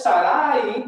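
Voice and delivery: "Sarai" with the accent on the second a, sa-RÁ-i; wrong stress, last A. Shown as a demonstration. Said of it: "porque no tiene acento en la última A". ("Sarai" con acento en la última a, sa-RÁ-i)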